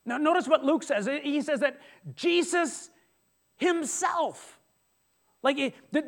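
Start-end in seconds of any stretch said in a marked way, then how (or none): 2.1-4.6 himself lifted high; emphasis on himself. Shown as a demonstration. Pastor points the congregation to the emphasis, himself raised high. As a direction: pitch himself up high for weight. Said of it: "there's an emphasis".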